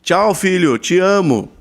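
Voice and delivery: demonstrated public call to a son; calling out loud. Shown as a demonstration. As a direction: call it out so strangers overhear. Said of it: "eu falo em português alto".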